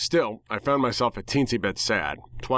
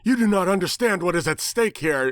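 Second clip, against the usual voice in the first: angry scolding; 8 semitones higher, 3 dB louder than usual. Acted. Bird scolding angrily.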